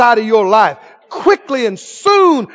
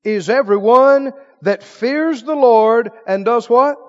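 reading the psalm with rising fervour; scripture reading; slower than usual. Acted. Preacher reading Psalm 128 aloud to the church. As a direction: proclaim the verse to the congregation.

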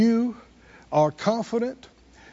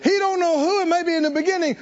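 raised, insistent preacher's delivery; emphatic preaching; 4 semitones higher than usual. Acted. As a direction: preach it with drive, pitched up. Preaches at high pitch.

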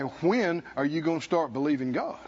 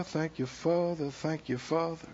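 soft prayer; 6 dB quieter than usual. Real, not acted. Murmured prayer aside.

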